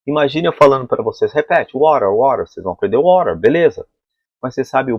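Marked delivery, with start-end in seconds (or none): 1.8-2.1 "water" as "wa-rer", louder, for repeating; flapped American t. Shown as a demonstration. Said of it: "T tem som de R". 2.1-2.5 "water" as "wa-rer"; flapped American t. Shown as a demonstration. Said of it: "T tem som de R".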